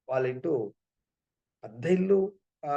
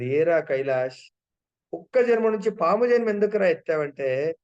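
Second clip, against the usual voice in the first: loud, higher call to the snake; exasperated amazement at his friend; surprised call; 3 semitones higher, 6 dB louder than usual. Retold or imitated. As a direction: Narada calling out to the snake, loud and raised. Narada surprised at snake rebirth.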